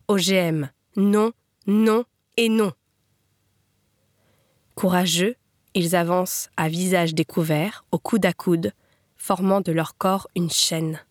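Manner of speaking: measured poetry reading with pauses between phrases; poem recitation. Acted. Reader reciting a poem to the faucheurs' glory, measured recitation.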